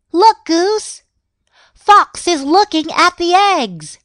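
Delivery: high, loud alarmed call; urgent warning. A narrator's reading. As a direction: warn Goose of danger. Warning Goose about the fox.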